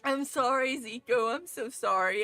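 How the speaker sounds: soft apology. Acted. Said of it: "I just cry".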